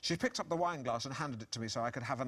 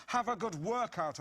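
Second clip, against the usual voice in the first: insinuating; 11 semitones higher, 4 dB louder than usual. Retold or imitated. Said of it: "slotting my right forefinger in and out".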